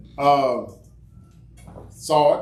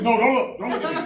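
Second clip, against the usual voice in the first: put-on high girl voice; 8 semitones higher than usual.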